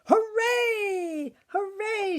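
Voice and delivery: high, loud hooray; cheering witch. A narrator's reading. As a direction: cheer in triumph. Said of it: "shouted the witch".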